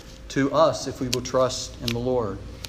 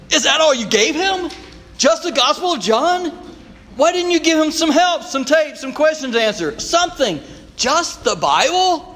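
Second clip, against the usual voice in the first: incredulous challenge; 11 semitones higher than usual. Retold or imitated. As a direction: push back in disbelief, rising to a shout. Pastor challenges his approach.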